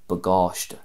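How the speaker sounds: "bagáiste" as buh-GAWSH-tuh; stress toward the end. Shown as a demonstration. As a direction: stress the long second syllable of "bagáiste". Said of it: "more of a focus".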